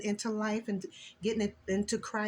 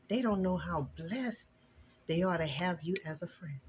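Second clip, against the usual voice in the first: emotional. Real, not acted. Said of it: "excuse me if I get emotional".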